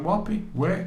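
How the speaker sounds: incredulous high question; confused, pitched right up; baffled high "where". Retold or imitated. Confused, arguing with soldiers.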